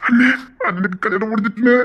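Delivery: a crying cry of joy to his brother; tearful, choked up. Acted. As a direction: voice caught in happy tears. Emotional wedding moment.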